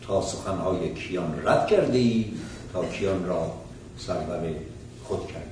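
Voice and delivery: brisk, measured Persian verse reading; intoned reading of classical verse; poem recitation. Acted. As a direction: recite the verse steadily, couplet by couplet. Recites Persian verse before the talk.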